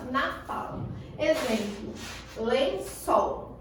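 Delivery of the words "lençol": "lençol" with the last syllable drawn out; stress on final syllable. Shown as a demonstration. Teacher shows the class the tonic syllable, stressing "çol" in "lençol". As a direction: put more force on the "çol" of "lençol". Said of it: "A que eu puxar".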